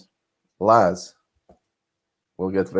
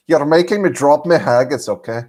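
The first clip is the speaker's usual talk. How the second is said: joking Scottish brogue; mock-indignant Scottish accent; 3 semitones higher, 4 dB louder than usual. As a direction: ham up a Scottish complaint. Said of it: "I can do a Scottish accent".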